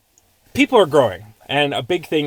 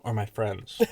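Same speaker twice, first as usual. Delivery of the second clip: announcing title; slower than usual. Acted. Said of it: "I titled it".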